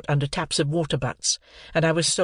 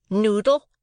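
high, louder insult; cried; 8 semitones higher, 4 dB louder than usual. A narrator's reading. Sister crying out at Joe. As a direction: snap the insult out. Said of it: "cried my sister".

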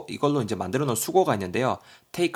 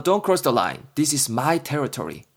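mock childish squabble; 2 semitones higher, 3 dB louder, much slower than usual. Kid quarrel over desk line.

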